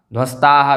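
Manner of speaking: ध्वस्ताः ending in a clear "ha"; visarga sounded. Shown as a demonstration. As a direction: say ध्वस्ताः as dhvastaa-ha. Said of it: "विसर्ग आ जाएगा".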